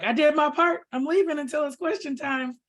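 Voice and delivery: lightly voiced Chip, bowing out of the scene; imitating Chip. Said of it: "he probably was like".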